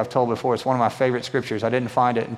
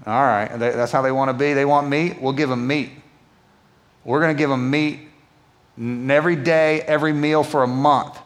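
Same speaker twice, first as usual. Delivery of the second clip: God's voice. Retold or imitated. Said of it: "He's like".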